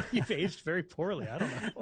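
laughing through the words; laughing tease. Real, not acted. Guest ribs host about looking old, laughing. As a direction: tease a friend while giggling.

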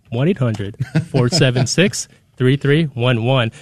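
slow it down slightly for the listeners. Shown as a demonstration. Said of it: "I'm saying it a little bit slower".

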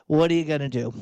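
resigned, hands-thrown-up shrug of a question; giving up, it is what it is. Acted. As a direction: say it like you're powerless to change it. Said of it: "throw your hands up in resignation".

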